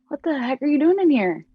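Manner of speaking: yelling at the roommate, half re-enacted; startled yell. Woken by her roommate at two A M, a startled retold yell. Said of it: "I'm freaking out".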